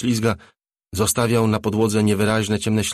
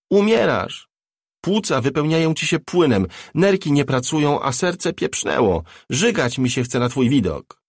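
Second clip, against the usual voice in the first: high, loud furious tirade, easing toward the end; furious yelling; 7 semitones higher, 4 dB louder than usual. Acted. Cherry raging at the dying Bobby on screen, loud and high. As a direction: hurl every word at him. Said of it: "wrzasnęła Cherry".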